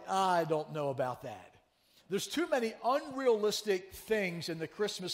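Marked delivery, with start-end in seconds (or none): 0.1-1.5 mock skeptic. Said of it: "they're like".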